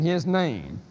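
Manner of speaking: "his" stressed in "his name"; stress on the supplied word. Shown as a demonstration. Lecturer listing supplied pronouns, "his" stressed. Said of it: "just to emphasize the word".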